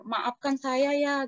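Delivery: slow, stretched retold apology; a touch of pleading, drawn out; apologetic spirit. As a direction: lightly voice a spirit begging pardon. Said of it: "rohnya dia ngomong-ngomong sama saya".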